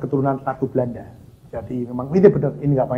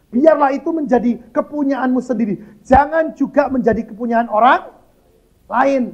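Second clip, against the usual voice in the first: high, declaimed Bible verse; scripture reading; 9 semitones higher, 5 dB louder than usual. Real, not acted. Preacher reading a verse to the congregation, declaiming. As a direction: proclaim the verse in a raised pitch.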